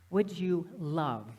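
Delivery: slow question, "love" drawn out; stress on love. Shown as a demonstration. Speaker asking the audience what they would love, "love" stretched out. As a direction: linger on the word "love". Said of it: "emphasize the word love".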